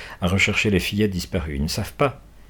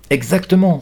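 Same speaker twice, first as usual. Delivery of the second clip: emphatic yes; 9 semitones higher, 6 dB louder than usual. Acted. Boy confirms eagerly.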